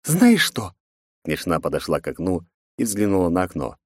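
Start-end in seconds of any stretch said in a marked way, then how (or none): 0.0-0.7 put-on higher, sharp girlish voice; defiant princess. A narrator's reading. Princess mocks her father, defiant. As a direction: tease and defy her father.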